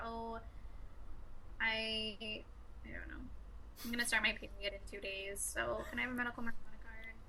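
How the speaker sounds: put-on soft SoCal valley girl voice; lightly mock a California valley girl; California accent. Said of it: "That's how they talk".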